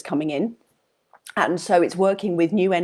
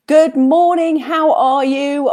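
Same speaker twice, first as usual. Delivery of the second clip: bright greeting; 8 semitones higher, 6 dB louder, slower than usual. Real, not acted. Greeting viewers joining live.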